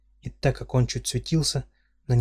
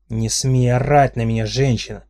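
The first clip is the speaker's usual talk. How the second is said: shouting; 6 dB louder than usual. Acted. Dinar yells back at heroine.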